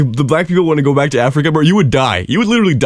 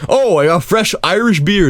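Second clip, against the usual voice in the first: higher, slower mock boast; mock tourist; 5 semitones higher than usual. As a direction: sell the beer like a tourist. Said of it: "it's like".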